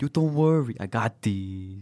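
high, loud put-on Asian accent; mock Asian accent. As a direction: copy the doctor in an over-the-top Asian accent.

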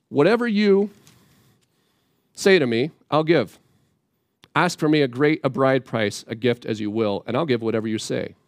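a hint of a pushy man buying his way in; smug Shechem. Preacher voicing Shechem offering any bride price. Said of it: "here's how, how he says it".

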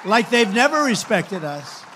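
slow, loud, leaning on "never"; punched repeat. Real, not acted. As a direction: hammer the word "never" home, slowly.

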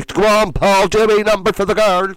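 high, loud coaxing mum; pushy mum. Retold or imitated. Mum making her son dance for her friends, loud.

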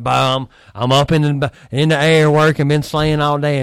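mock exhausted. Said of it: "he's like".

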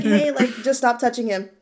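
mild, casual correction in an everyday voice; calm instruction. Retold or imitated. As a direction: show how gently you really said it. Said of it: "All I said was like".

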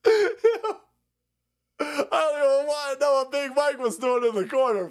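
mock voice. High put-on voice.

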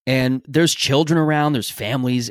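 usual speaking voice

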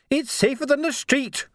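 yelling back. Acted. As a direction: shout back nose to nose. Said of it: "she yelled back".

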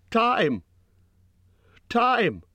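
very high squeal; sudden squeal. A narrator's reading. Frightened Bilbo can only squeal for time, sudden high squeal. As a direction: squeal it out in short bursts. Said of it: "came out with a sudden squeal".

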